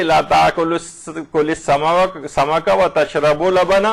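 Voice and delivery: very slow, تشرب with pesh. Shown as a demonstration. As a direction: drag تشرب اللبن out. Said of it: "اگر اس پہ پیش لگا دیا جائے". (پیش کے ساتھ بہت آہستہ)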